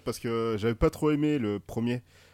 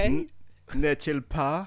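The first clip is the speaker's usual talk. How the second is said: mock English-accented tag question, rising; 4 semitones higher, much slower than usual. Joining the Astérix Briton joke, mock English accent. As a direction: toss in a British n'est-il pas. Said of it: "l'accent anglais".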